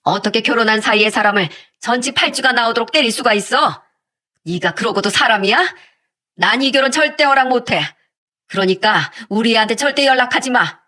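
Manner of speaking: restrained mock shout of outrage; angry outburst. Mother confronting her daughter's fiancé, mildly acted angry shout. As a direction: scold indignantly, without real shouting. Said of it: "제가 열이 받아서 소리쳤는데".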